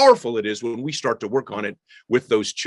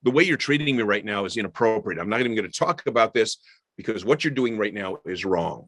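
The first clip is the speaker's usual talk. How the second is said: calm, firm and low, a parent setting a limit; steady, no-nonsense correction; firm parent demo; 4 semitones lower than usual. Shown as a demonstration. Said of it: "move to the process and say".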